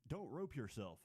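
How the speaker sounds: normal talking voice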